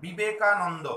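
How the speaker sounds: "বিবেকানন্দ" slowed so each syllable shows; measured "বি-বে-কা-নন্-দ" for a learner; slow and careful. Shown as a demonstration. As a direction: spell out "বিবেকানন্দ" by ear, syllable by syllable. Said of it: "যদি খুব আস্তে আস্তে বলি".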